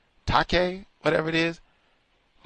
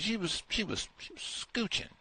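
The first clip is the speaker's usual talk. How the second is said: mock hushed; 7 semitones higher, 13 dB quieter than usual. Mock whisper of excuse.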